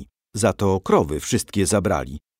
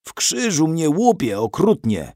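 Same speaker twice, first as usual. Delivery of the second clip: higher-pitched pained complaint; groaning; 7 semitones higher than usual. A narrator's reading. Grandfather complains of his sore back, groaning. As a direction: groan through an aching back. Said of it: "jęknął".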